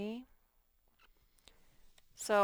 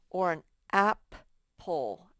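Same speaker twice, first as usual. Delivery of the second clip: drawn out question; 5 dB louder, much slower than usual. Acted. Drawn-out quiz question to children.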